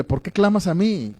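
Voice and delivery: mock-scolding question lifted in pitch; mild reproach. God questioning Moses as some preachers present it, mildly reproachful. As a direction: challenge him lightly, as if he should know better. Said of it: "pareciera que es como un reproche".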